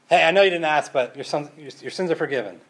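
breezy offhand forgiveness, quickening at the end; casual know-it-all tone; flippant, presumptuous. Pretend. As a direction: toss it off like it's nothing. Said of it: "being a little pretentious here".

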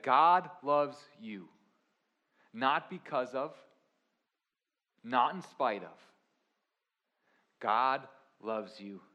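loud, slow, insistent coaching; intense coach voice. Retold or imitated. Coach insists to the doubting player, loud and slow. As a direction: plant every word so it can't be brushed off. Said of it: "kind of an intense voice".

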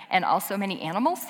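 "And also many animals?" repeated fast with an amused rising question. Shown as a demonstration. Pastor rereads the book's final line to the congregation, amused. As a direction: relish the odd ending of "And also many animals?" with a grin. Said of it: "I just think it's funny".

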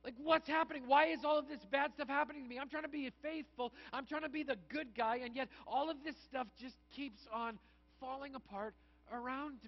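a frustrated believer praying out loud, loud then trailing off; complaining to God. Retold or imitated. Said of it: "a conversation that kinda goes like this".

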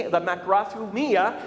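makrothumia with stress on me; Greek pronunciation. Shown as a demonstration. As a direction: lean on the me in makrothumia. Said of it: "You gotta put the emphasis on the me".

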